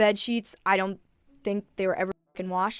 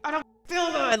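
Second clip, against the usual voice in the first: higher-pitched, exasperated mock yell; re-enacted yell; 7 semitones higher than usual. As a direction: act out yelling at someone who won't back off. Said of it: "I literally went like that".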